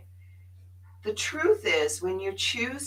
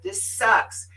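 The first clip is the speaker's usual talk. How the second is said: mock frustration; 7 dB louder, slower than usual. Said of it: "I said".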